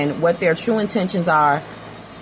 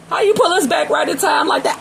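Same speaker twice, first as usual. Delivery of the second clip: excited praise; 10 semitones higher than usual. Retold or imitated. Gushing at hero.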